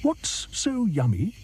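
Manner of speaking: high, slow, puzzled hippo. Acted. Hippo asks the crocodile, high and puzzled. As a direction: ask slowly, up high. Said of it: "asked Humpy Rumpy".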